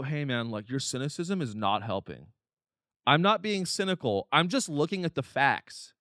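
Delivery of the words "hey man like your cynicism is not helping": mock dismissive bro. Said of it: "and they go".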